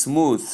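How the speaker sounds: "smooth" ending in a voiceless th; common pronunciation. Shown as a demonstration. Teacher quoting most people's form, "smooth" with voiceless th. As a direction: say "smooth" with th as in "tooth". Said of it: "as most people call it".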